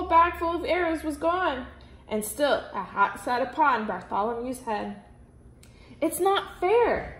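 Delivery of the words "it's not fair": higher, slow petulant cry; a spoiled noble whining; whiny protest. A narrator's reading. Grand Duke whining at missing the hat, higher and slow. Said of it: "cried the Grand Duke".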